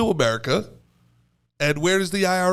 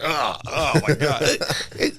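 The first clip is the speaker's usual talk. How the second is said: a singer in interview; 2 semitones lower, slower than usual. Acted. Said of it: "have you ever heard her in a, in an interview".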